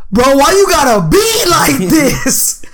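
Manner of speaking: high, drawn-out imitation of a complaint; slow, exasperated mock wail; mock whining. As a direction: whine like a wronged little brother. Imitates locked-out brother complaining.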